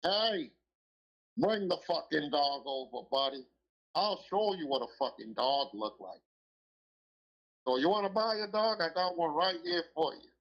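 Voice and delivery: lightly voiced dog-dealer pal pushing his dogs; Dirty Steve impression. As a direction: hype up a dog, mock-salesman voice. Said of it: "Dirty Steve used to talk like this".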